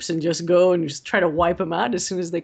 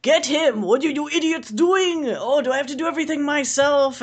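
higher-pitched bad Russian accent, hammed-up villain; 8 semitones higher than usual. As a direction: yell at the idiots in a hammy Russian accent. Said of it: "a really bad Russian accent".

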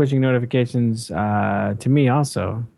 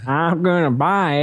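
put-on Southern accent; 6 semitones higher than usual. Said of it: "the Southern accent".

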